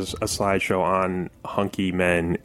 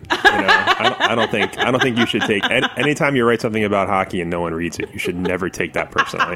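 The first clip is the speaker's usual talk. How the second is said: laughing. Real, not acted. Consoling her while laughing.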